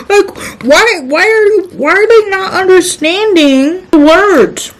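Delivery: high, half-crying with laughter; real giggling frustration; laughing exasperation. Real, not acted. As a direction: laugh through the disbelief. Exasperated at persistence.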